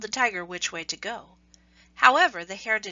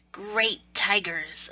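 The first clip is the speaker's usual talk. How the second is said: Anansi addressing tigers; 3 dB louder, much slower than usual. Acted. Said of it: "Anansi said".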